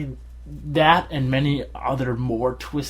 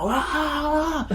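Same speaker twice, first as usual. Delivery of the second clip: mock scream. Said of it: "you have to yell".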